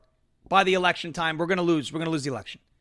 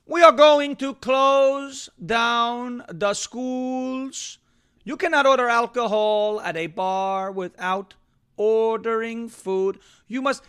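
higher, louder, very slow bossy decree voice; Cuomo impression; 4 semitones higher, 4 dB louder, much slower than usual. Host mimics Governor Cuomo ordering closures, in a high, loud, slow dictating voice. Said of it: "this is how he would talk".

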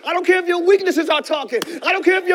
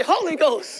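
call to repeat; slower than usual. Shown as a demonstration. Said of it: "Somebody say".

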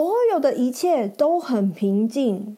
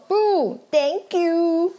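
lightly voiced polite knight; a hint of a gallant hero declining; 4 semitones higher than usual. Knight politely turns down the dragon, lightly voiced. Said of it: "骑士说".

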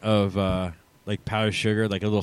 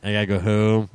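put-on South Jersey accent. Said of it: "the southern New Jersey accent".

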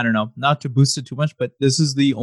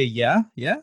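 mock UK rapper. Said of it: "I'm gonna be speaking like, uh, like a U K rapper now".

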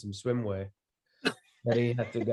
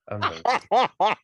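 higher, louder, slow mock outrage; mock disbelief; 9 semitones higher, 6 dB louder than usual. Guest reacting to the child's rude phrase, hammed-up disbelief.

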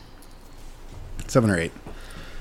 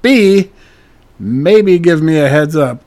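retold indignation; 6 dB louder than usual. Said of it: "and then I was pissed".

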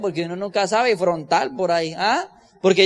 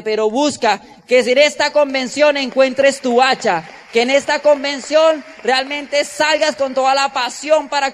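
louder, driving exhortation to the crowd; rousing preaching; 4 dB louder than usual. Acted. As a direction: fire up the convention audience with pressing urgency.

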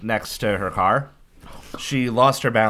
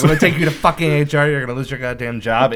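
loud mock-furious threat; angry yell; 3 semitones higher, 5 dB louder than usual. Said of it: "I started screaming".

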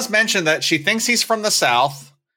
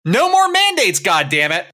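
mock angry conservative; 5 semitones higher than usual. Mocking a conservative boyfriend.

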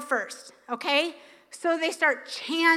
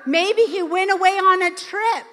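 lightly voiced sarcastic taunting of the prophets; a playful mock jeer; teasing the Baal worshipers with light sarcasm; 4 semitones higher than usual. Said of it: "Elijah is here mocking them".

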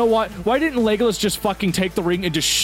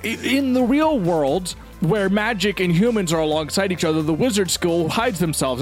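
drawn-out pompous explaining; mock Rowling voice; 2 semitones higher, slower than usual. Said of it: "Rowling is like".

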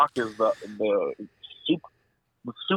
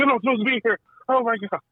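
panicked confusion; 6 semitones higher than usual. Retold or imitated. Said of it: "You're like".

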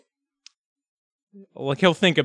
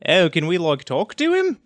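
put-on first stab at a Boston accent, lifted on "talk to him"; badly faked Boston accent, falling at the end. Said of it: "bad at speaking in a foreign accent".

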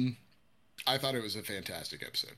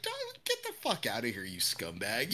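angry brush-off; 4 dB quieter than usual. Retold or imitated. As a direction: snap it away in disgust. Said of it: "And it's just like".

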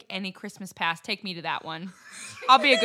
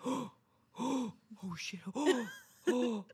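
1 mock alarm; 5 semitones higher, 4 dB quieter, much slower than usual. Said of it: "my roommate and I were like".

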